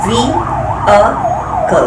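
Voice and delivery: "V-A-K-L" broken into separate sounds, vee, uh, kul; syllable-by-syllable demo. Shown as a demonstration. Instructor breaking down the correct pronunciation, "V-A-K-L" as separated syllables vee, uh, kul. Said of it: "The correct pronunciation is".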